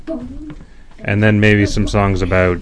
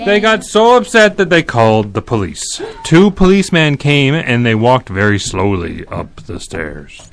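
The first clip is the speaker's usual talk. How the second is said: animated read-aloud, raised pitch; story narration; 2 semitones higher, 4 dB louder than usual. A narrator's reading. Reading the bedtime tale to kids, animated narration. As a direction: tell it brightly to listening children.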